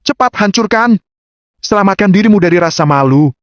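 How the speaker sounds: high, sneering urging; Lawrence. A narrator's reading. Rival dares Agam to destroy it and avoid shame, sneering. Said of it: "Dia mencibir".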